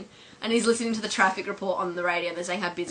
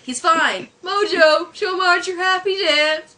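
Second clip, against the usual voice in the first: high, loud cartoon husband; insistent, hammed-up command; Homer; 10 semitones higher, 9 dB louder, much slower than usual. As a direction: call the pet to perform. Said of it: "Homer's like".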